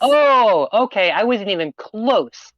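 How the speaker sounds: high, loud drawn-out "oh", then easing down; surprised realization. Real, not acted. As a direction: realize you got it badly wrong. Reacts to looking up the pronunciation.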